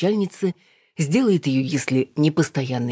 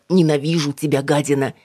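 louder, contained imitation of furious cursing; retold angry yell; 5 dB louder than usual. Mother retelling an abusive phone call, mock angry yell. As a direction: mimic a hateful caller, raised but not screaming. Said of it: "орала".

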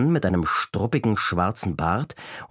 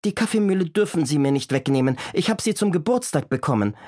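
pleading grandmother; 7 semitones higher than usual. A narrator's reading. Grandmother pleads for her birthday present.

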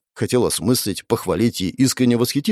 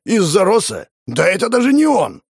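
high, loud angry yell; furious shout; 9 semitones higher, 4 dB louder than usual. Acted. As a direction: shout him down. Grandfather furious in quarrel.

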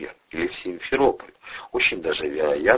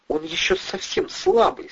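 reproachful. A narrator's reading. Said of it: "сказала медсестра укоризненно".

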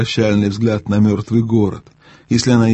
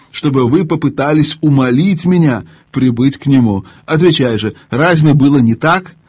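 evil queen; 3 semitones higher than usual. Acted. Queen's long haughty speech.

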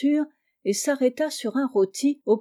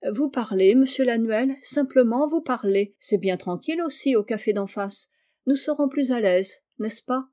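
light, teasing invitation; a casual, friendly lilt with menace underneath; breezy detective inviting the butcher to talk. Acted. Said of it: "Marie dit cela d'un ton badin".

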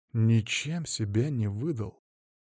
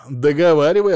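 loud demand; 4 semitones higher, 9 dB louder than usual. Acted. Ex demands the rest.

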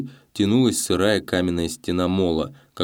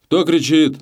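higher, louder call across the water; a stern watchman shouting into the dark; stern shout from the sea; 9 semitones higher, 7 dB louder than usual. A narrator's reading. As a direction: bark it out over the waves. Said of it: "суровый окрик".

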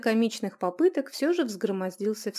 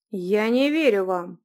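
blunt refusal; 7 dB louder, slower than usual. Acted. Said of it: "прямо заявил юноша".

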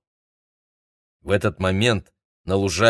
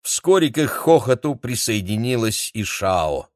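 usual speaking voice

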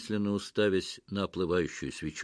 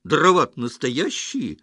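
loud, higher-pitched bark; raised, indignant voice; barked protest; 4 semitones higher, 6 dB louder than usual. A narrator's reading. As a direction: shout it in agitated protest. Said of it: "рявкнул Петро".

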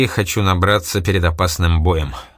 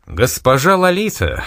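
warm eager exclamation, higher and slow; eager greeting to the club owner; exclaiming; 6 semitones higher, 3 dB louder, slower than usual. A narrator's reading. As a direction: greet her with delight. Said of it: "воскликнул Богомолов".

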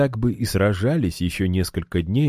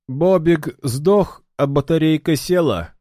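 mocking; 10 semitones higher, 4 dB louder than usual. A narrator's reading. Ildar keeps taunting the foe.

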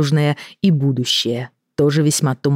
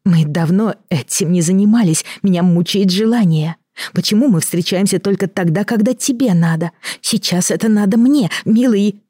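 Elena, pitched up and urgent; higher pleading woman; 5 semitones higher than usual. Acted. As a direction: press him, rising higher.

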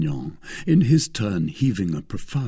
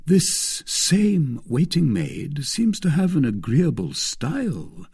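higher, drawling offhand tease; careless remark; 6 semitones higher, slower than usual. A narrator's reading. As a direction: toss it off slowly, as if indifferent. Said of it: "said the messenger carelessly".

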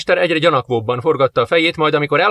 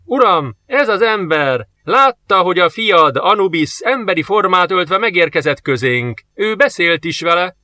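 higher, louder, eager; urgent report; 6 semitones higher, 3 dB louder than usual. Acted. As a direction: report breathlessly to the lord. Soldier reports to master.

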